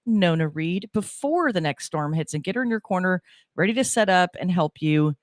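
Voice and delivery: announcer promo voice; radio ad read. Acted. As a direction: sell it like a local radio spot. Reads station promo and sponsor ad.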